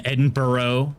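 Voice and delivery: "Edinburgh" slowly as Eden-BURR-oh; American pronunciation. Shown as a demonstration. Streamer recalling pronunciation debates with viewers, "Edinburgh" slowly as Eden-burrow. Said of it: "we've had conversations on".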